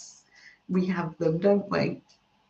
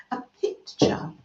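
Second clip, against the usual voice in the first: whispered American pitcher; 3 dB quieter than usual. Shown as a demonstration. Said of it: "I love that word".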